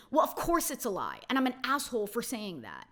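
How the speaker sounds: mock non-apology, lightly bitchy. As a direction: imitate a snide, insincere admission. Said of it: "like, a bitchy tone".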